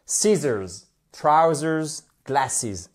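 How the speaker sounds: SCIS-sors, TROU-sers, GLASS-es, one by one; first-syllable stress. Shown as a demonstration. Teacher shows where stress falls, first syllable of Scissors, trousers, glasses. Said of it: "vous avez l'accent tonique qui est sur la première syllabe".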